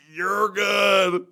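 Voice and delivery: high, loud laughing reassurance. Retold or imitated. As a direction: shout it out, amused. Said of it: "You're like".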